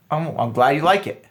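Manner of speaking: calm, unbothered confidence; confident. Shown as a demonstration. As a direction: shrug it off coolly. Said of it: "You could just be like".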